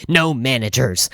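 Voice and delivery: imitating a crazed customer's sharp refusal; mildly acted angry objection; retold snap. Lady stopping the clerk's radio call, snapping. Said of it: "immediately snaps".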